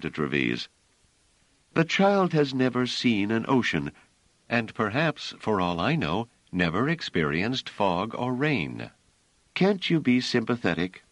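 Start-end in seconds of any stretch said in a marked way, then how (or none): 1.7-11.0 lightly voiced Bliss, higher, asking for sympathy; a hint of Bliss appealing to him, pitched up; Bliss pleading.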